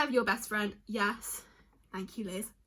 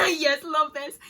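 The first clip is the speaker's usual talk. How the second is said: teary laugh; 5 semitones higher, 9 dB louder, slower than usual. Real, not acted. Touched by friend's answer.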